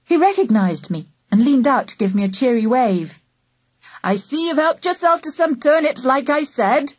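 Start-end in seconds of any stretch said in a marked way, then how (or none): 4.0-6.9 mild shout. A narrator's reading. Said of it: "he shouted".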